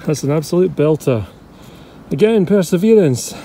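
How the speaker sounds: panting between words after digging; breathless, puffing through it; out of breath. Real, not acted. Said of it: "I'm out of breath".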